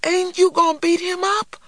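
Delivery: put-on very high-pitched child's cry; disappointed little boy. A narrator's reading. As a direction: pipe up high like a let-down small boy. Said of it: "cried a disappointed little man".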